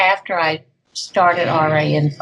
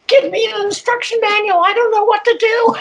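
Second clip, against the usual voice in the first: high, frantic mock plea; 3 dB louder than usual. Survivor mimics frantic pleas to therapists, high and panicky. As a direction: play the lost survivor begging for help. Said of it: "running around frantically saying".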